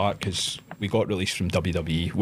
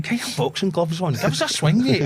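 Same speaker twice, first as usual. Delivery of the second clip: taunting challenge; 10 semitones higher, 4 dB louder than usual. Retold or imitated. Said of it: "I was like".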